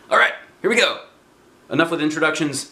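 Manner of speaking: excited start. Real, not acted. Reader excitedly starts the story.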